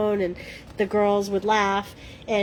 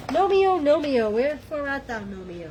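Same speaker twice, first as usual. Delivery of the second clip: mock Juliet calling; 5 semitones higher than usual. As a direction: call for a lost love, hammed-up, trailing away. Mock Juliet calling for lost gnome.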